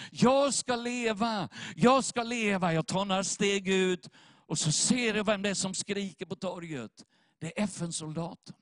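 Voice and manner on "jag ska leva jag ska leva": raised, drawn-out retold call; retold cry. Preacher retells a voice heard on the square, calling out. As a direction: imitate someone calling out across a square. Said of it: "jag hör den här rösten då".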